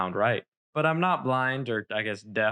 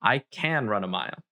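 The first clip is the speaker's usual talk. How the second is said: "can" fest betont mit fallendem Schluss; "can" sicher, Satz klar beendet; stress on can. Shown as a demonstration. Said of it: "that's the end of the sentence".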